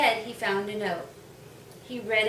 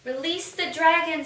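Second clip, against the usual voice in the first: higher, louder villain scream; screamed order; 6 semitones higher, 6 dB louder than usual. A narrator's reading. The jester screaming to release the dragon. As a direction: bellow the order to unleash the beast.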